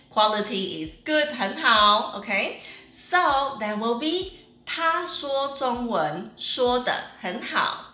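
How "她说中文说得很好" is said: slow, clear teacher demo; slow model sentence. Shown as a demonstration. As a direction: spell it out slowly for students. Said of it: "definitely take your Chinese into another level".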